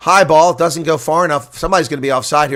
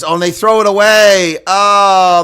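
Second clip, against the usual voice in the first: dismayed exclaim; 4 semitones higher, 5 dB louder, slower than usual. Real, not acted. Commentator reacts to a thrown-away ball.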